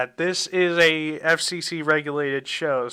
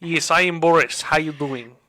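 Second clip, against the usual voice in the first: put-on slipping Russian accent, lightly done; playful Boris with a Russian accent; 5 dB louder than usual. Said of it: "My Russian accent is falling off a bit".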